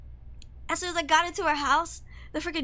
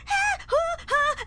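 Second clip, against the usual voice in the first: imitated moaning; 5 dB louder, much slower than usual. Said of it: "she started going".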